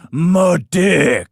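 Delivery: loud blunt "My dick"; mock deadpan quote. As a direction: punch it out as a lightly voiced other guy. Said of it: "that guy cynic would always go".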